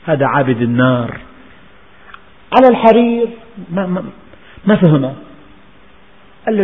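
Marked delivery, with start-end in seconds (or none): 2.5-3.3 على الحرير thrown out high and louder; preacher stressing silk against the straw mat; emphatic contrast. Acted. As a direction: hit الحرير as the shocking contrast.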